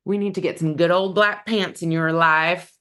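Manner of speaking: playful put-on Southern accent; light mock-Southern twang on the pitch. Stylist tells viewers they need black pants, Southern accent. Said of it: "That was my best Southern accent".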